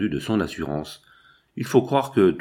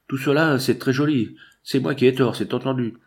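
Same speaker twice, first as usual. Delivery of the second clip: raised, higher-pitched indignation; angry outburst; 5 semitones higher than usual. Acted. Furious associate pretending to concede he is wrong, angry outburst. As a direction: erupt in mock agreement, voice pushed up. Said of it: "Tout à coup, il éclata".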